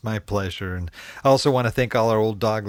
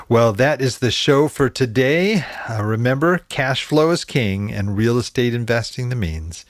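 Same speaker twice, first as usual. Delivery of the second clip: podcast outro; 4 dB louder than usual. Acted. Host's sign-off outro.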